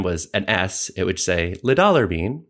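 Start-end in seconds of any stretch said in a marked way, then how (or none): 1.6-2.4 lightly imitated text-to-speech voice, a bit higher; a hint of a digital assistant reading out; TikTok AI voice. Explaining how the machine misreads a typed word, lightly mimicked AI voice. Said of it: "like in that A I voice".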